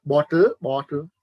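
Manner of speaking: BOTTLE twice, crisp T then flattened T; T contrast. Shown as a demonstration. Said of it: "So the flat sound".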